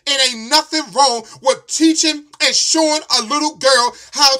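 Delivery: loud, fired-up preaching at the listener; really heated, pushing every line out loud; heated rant. Real, not acted. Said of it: "I was heated".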